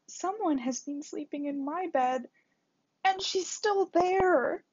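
high, loud little bear shout, slowing at the end; a tiny bear yelling to wake the girl; Baby Bear shouting. A narrator's reading. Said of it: "shouted Baby Bear so loudly". (Bébé Ours crie très fort d'une voix aiguë)

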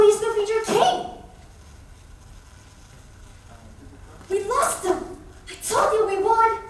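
lightly voiced lioness Nala, pleading and urgent by the end. Nala finds Simba and begs him to come home, lightly acted and urgent. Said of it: "performing two monologues. One will be Lion King, See Nala".

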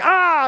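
sudden high yelp of fright, retold; a high startled shriek at a bat; startled scream. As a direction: squeal like a bat just dove at you. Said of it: "freaking out".

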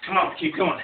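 coaching encouragement. Real, not acted. Coach pushing through last reps.

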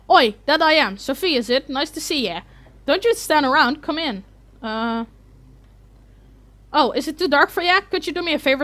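lightly voiced cheerful old dwarf; a hint of a friendly old dwarf calling Sophie in; friendly dwarf welcome, only lightly put on; gruff Dwarf. Voices Dwarf's game dialogue.

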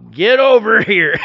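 yelling at the dog. Retold or imitated. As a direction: bark the order at the dog. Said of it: "we might yell at the dog".

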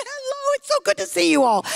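very high sing-song "Hello"; cooing greeting. Retold or imitated. Mom cooing a very high greeting at her kids. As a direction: coo at the kids like at the dog. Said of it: "And I went".

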